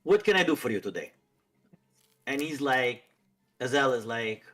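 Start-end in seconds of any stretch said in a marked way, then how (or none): 0.0-1.1 quick, lightly put-on Middle Eastern accent; attempted Middle Eastern accent. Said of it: "I'm not good with".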